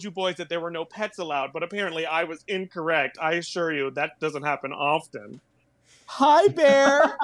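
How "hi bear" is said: high, loud sing-song hello to an animal; high cutesy greeting. Pretend. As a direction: call up to the bear like to a puppy. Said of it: "Are you saying "Hi, bear" out loud?".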